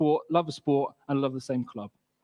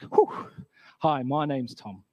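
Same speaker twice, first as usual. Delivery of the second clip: lightly acted, slow reply after a "whew"; retold own reply; 2 semitones lower, much slower than usual. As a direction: puff out, then a slow introduction. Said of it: "And I was like".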